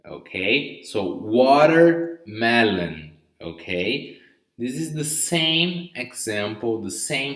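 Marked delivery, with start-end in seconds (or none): 1.1-3.1 slow watermelon with the T like a quick D; flapped T. Shown as a demonstration. Teacher repeating watermelon slowly to students. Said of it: "a mixture between letter R and letter D".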